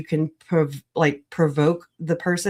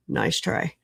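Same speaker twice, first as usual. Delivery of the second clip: whispered teasing aside; 5 dB quieter than usual. Real, not acted. Streamer teasing a wrong definition, whispered. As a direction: drop to a whisper for the dig.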